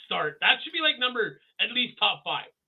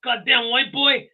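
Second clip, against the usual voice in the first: high, loud, slow tough-guy voice; hammed-up macho dude; imitating Bolo; 8 semitones higher, 10 dB louder than usual. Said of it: "Bolo's like".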